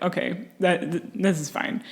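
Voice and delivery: soft, unbothered aside; hushed fake-calm Hannibal; mock calm. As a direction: play it down softly, as if nothing's wrong. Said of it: "Hannibal is just like".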